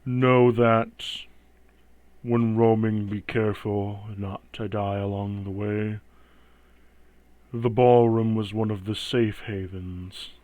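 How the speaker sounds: slow, hollow voice from inside a helmet; echoing voice inside helmet. Acted. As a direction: speak as if echoing in a steel helm. Death Knight voice continues.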